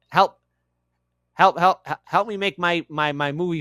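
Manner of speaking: mock cry for help. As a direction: plead like a joke damsel in distress. Mock plea for his movie.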